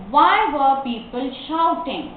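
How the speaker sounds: slow, connected question; model reading. Shown as a demonstration. Teacher asks why people were shouting, slow reading. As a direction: read it as one careful sentence.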